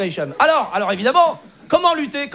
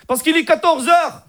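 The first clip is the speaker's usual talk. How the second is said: put-on higher Moroccan-accented punchline; cousin Hicham; 5 semitones higher than usual. Cousin explaining his joke, high Moroccan accent. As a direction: deliver the answer in caricatured Moroccan accent. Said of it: "l'accent arabe".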